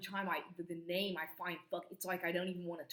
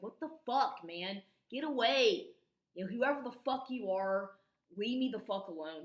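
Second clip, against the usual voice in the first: angry retort; 3 semitones higher, 5 dB louder than usual. Retold or imitated. Retold telling neighbor off.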